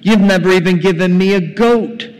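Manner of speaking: loud, indignant complaint; acted resentful son airing his grievance; angry elder son. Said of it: "He's angry".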